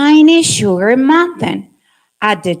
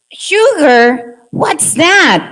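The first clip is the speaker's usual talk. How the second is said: higher, curious mock surprise; lightly voiced puzzled salt ant; 5 semitones higher, 4 dB louder, slower than usual. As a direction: ask as if the word is new to you. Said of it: "make different voices".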